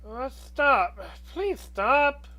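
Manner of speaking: loud, high embarrassed protest; flustered protest. Acted. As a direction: wave off praise, flustered. Flustered at praise.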